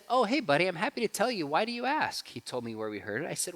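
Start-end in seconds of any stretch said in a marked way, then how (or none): 0.1-2.3 put-on high, kind voice to a child; gentle reassuring dad. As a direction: reassure the curious boy.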